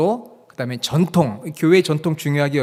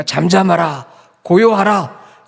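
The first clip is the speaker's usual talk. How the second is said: slow, loud, commanding rebuke; rebuking command; 3 semitones higher, 7 dB louder, much slower than usual. Acted. Jesus rebukes the storm on the lake, stern loud command. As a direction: rebuke it loudly, drawing the words out. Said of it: "어떻게 꾸짖으셨습니까".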